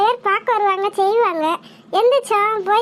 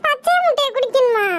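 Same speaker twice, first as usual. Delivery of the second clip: shocked disbelief; 3 semitones higher than usual. Acted. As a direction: blurt it back in disbelief. Recoils at raw egg news. (அதிர்ச்சியோடு நம்ப முடியாமல்)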